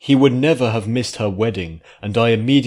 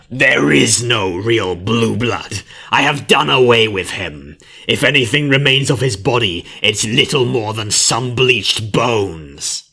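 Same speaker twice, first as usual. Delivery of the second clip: creature voice; 3 semitones higher, 6 dB louder than usual. A narrator's reading. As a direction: gloat over the dead prince. Creature gloats over Blueblood.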